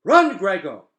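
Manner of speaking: put-on rough yell at the boy; rough shouted order. A narrator's reading. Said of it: "in a rough voice so unlike the quiet one".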